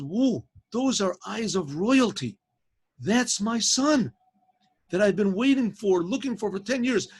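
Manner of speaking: a father realising his lost son is there; awed recognition. Acted.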